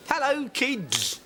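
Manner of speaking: high, slow cartoon bear greeting; Dexter the bear voice. Bear voice actor proving himself to a dad, high and slow. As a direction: drawl it out like a kids' cartoon bear. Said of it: "I'm Dexter".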